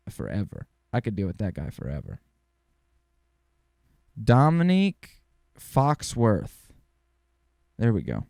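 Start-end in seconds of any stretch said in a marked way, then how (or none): 4.2-6.7 loud, high, drawn-out name announcement; stretched-out, raised-voice shout-out; calling out a name. Pretend. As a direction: belt out the name slowly like a big introduction. Calling out the reporter's name in tribute.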